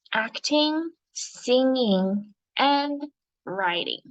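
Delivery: slow, deliberate reading for pupils to follow; teacher leading a class read-along, word by word; read-along story narration. Shown as a demonstration. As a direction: read aloud with measured, expressive phrasing. Reads the story aloud with class.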